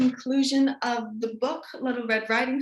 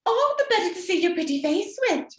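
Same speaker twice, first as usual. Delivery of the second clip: wolf as granny; 7 semitones higher, 3 dB louder than usual. Acted. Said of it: "replied grandmother".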